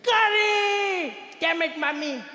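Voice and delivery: high, loud, held yell of outrage; exasperated high-pitched outburst; scream. Acted. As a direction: scream the first word, then curse in a high voice. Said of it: "He screams like".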